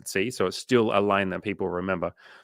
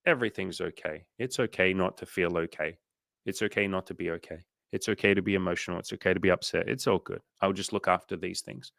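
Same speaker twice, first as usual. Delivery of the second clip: soft, gentle self-talk to your own mind; calm reassurance; 4 dB quieter than usual. Retold or imitated. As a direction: soothe yourself like a calm parent. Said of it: "I can just be like".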